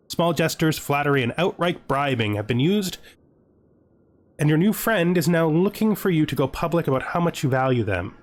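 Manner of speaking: measured storyteller reading; lightly dramatic read-aloud; game event narration. Acted. Reads game event text aloud.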